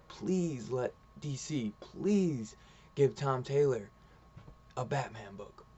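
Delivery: earnest pleading. Real, not acted. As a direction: beg them, stretching each please. Begging the publisher for a book.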